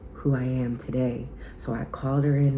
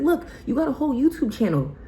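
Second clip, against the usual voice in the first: high, bright pep talk to her younger self, getting louder; hyped-up cheer; 10 semitones higher, 4 dB louder than usual. Retold or imitated. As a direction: gush at her like an excited best friend. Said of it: "I said".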